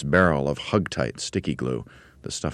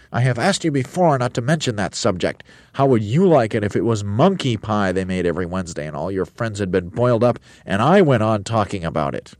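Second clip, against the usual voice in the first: raised, indignant scolding; Roly-Poly Bird protesting; 5 semitones higher, 5 dB louder than usual. A narrator's reading. Bird offended by pie talk, protesting. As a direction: scold in a higher character voice.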